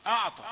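أعطى with a heavy hamza and ain. Shown as a demonstration. Teacher imitating the mistaken heavy أعطى. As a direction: say أعطى darkened from the very first letter. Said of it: "أنك تفخم الهمزة".

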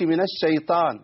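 الشيطان with a light t in place of emphatic taa; thinned taa. Shown as a demonstration. Teacher shows what to avoid, thin taa in الشيطان. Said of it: "وفخم الطاء".

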